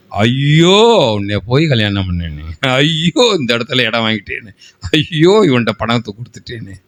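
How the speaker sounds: lightly acted moaning complaint; mock lament. Preacher mimics people regretting marriage and purchases, mock lamenting. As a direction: imitate a regretful moaner, stretching each cry of woe. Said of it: "அதுக்கு பேரு தான் யா புலம்பல்".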